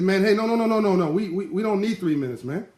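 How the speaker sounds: put-on boy refusing to wait for three minutes, high and eager. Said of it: "He said".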